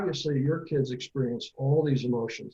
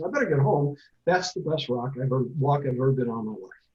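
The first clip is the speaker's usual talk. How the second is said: excited Tigger. Acted. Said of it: "he's that excited child".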